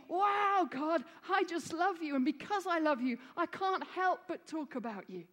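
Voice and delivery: bright, excited burst of love for God; joyful exclamation. Retold or imitated. Preacher voicing a believer who gushes to God, excited. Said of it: "to be saying".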